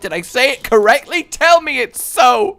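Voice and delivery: hammed-up hopeful plea; mock pleading. Real, not acted. Pleading for confirmation.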